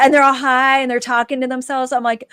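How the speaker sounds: ordinary talk, nothing marked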